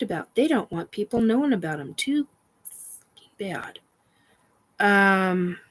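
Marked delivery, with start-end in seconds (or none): 1.9-3.8 higher, slower, mocking; defiant retort; defiant scoff. Real, not acted. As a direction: sneer it at them. Defying unseen entities.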